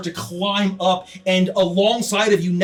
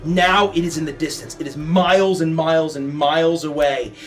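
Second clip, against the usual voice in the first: steady descriptive narration over music; game master scene setting. Acted. Game master setting the scene for the players, measured narration. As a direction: paint the hellscape for the party.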